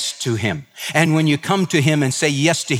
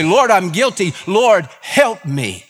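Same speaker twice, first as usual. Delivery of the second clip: crying out to God; 5 semitones higher than usual. Retold or imitated. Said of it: "cry out and say".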